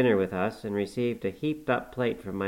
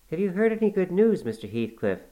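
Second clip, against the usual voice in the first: exclaimed; 9 semitones higher than usual. A narrator's reading. Nelly exclaims to Heathcliff.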